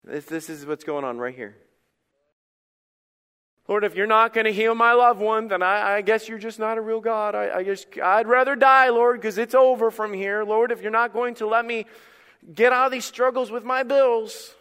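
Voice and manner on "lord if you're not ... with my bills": whiny prayer. Retold or imitated. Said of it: "we go into whine mode automatically".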